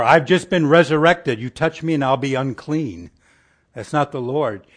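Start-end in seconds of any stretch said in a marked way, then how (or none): 0.0-3.1 louder, hammed-up fussy alarm about being unclean; mock squeamish Jesus fearing uncleanness; mock prissy protest. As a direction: play a prissy, squeamish holy man.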